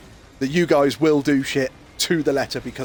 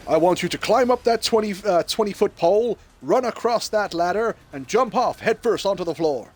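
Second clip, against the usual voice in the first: general giving orders; 5 semitones higher than usual. Acted. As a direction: order the cadet about like a drill officer. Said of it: "And he goes".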